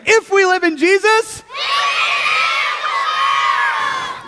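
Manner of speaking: high, full-voiced rallying call; as loud as possible. Shown as a demonstration. Leader cues children's loudest response, high loud call. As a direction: belt it out to fire up the group. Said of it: "As loud as you can".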